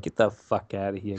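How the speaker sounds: lightly put-on New York accent; a hint of stock New Yorker. Imitating New Yorkers as Brits know them, New York accent. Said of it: "a New York, ... kind of accent".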